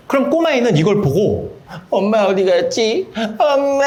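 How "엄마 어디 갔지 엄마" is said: put-on high, slow wail of a little kid; mock child's crying. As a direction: imitate a small child wailing for mom. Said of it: "하고 이렇게 울어요". (엄마 찾는 꼬마의 울음 흉내)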